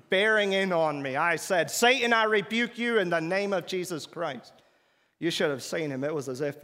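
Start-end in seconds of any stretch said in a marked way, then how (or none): 1.7-4.5 raised, commanding rebuke of Satan; forceful rebuke. Retold or imitated. Preacher retelling, rebuking Satan aloud. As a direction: rebuke him with full authority.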